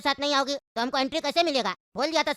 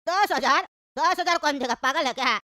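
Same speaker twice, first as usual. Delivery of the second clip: indignant disbelief. Acted. Haggler balking at the ten thousand demand, indignant disbelief. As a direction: balk at the outrageous price.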